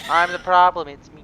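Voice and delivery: loud, then dropping to a murmur; dramatic confession. Acted. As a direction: declare it, then deflate. Hammed-up self-blame.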